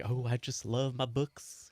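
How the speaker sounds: a light put-on accent, slow and soft; Odin Ur's accent. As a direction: ease into a faint bookish accent. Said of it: "I don't know why he's got that accent".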